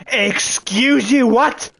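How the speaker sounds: high, drawn-out outraged question; can't believe what just happened; indignant disbelief. Real, not acted. Indignant at losing items.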